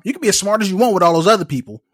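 laughing mom impression; imitating mom. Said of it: "my mom said it all the time".

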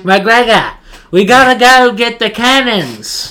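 high, loud gruff soldier voice; game character impression. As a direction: bark it like the game's soldier. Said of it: "what he sounds like".

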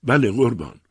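acted wail of submission; moaning. A narrator's reading. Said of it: "از پا افتاد و نالید".

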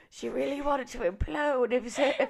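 mock earnest request. Acting out a hospice request.

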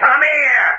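high-pitched, insistent summons; urgent calling. Acted. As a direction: call him over urgently.

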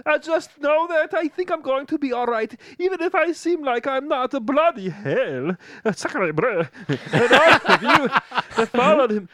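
put-on a young man's shaky farewell video, held together; grieving streamer. Jason tells his followers Liam is dead, tearful. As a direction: keep it together through the tears.

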